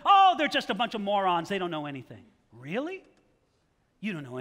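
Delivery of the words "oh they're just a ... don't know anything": mock dismissal. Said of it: "what they say".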